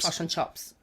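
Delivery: fish and chips said as "flush and chops", i for u and a for o; a mild New Zealand vowel shift on "flush and chops"; New Zealand accent. Retold or imitated. Co-host echoing Ruby's Kiwi vowels, mild New Zealand accent. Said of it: "as she would say".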